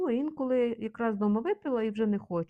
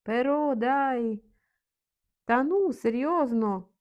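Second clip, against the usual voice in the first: drawn-out, louder, higher; emotional disbelief; 4 semitones higher, 4 dB louder than usual. Shown as a demonstration. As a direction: slowly stretch out the come-on. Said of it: "Такий емоційний розмовний вираз".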